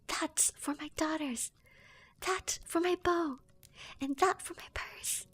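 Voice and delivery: hammered out like a furious giant, still whispered; whispered shout. Acted.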